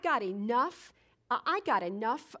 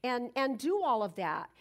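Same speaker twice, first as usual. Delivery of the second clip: incredulous questioning; 3 semitones higher than usual. Retold or imitated. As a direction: ask why as if it makes no sense. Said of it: "the next thing I think is".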